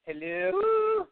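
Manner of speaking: high, stretched call of hello; calling down a dead line; shouting into a phone. Real, not acted. Caller silent on phone line.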